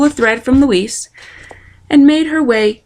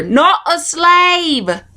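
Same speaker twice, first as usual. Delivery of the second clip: shouted; 7 semitones higher, much slower than usual. A narrator's reading. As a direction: shout it so she can hear. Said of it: "shouted a soldier".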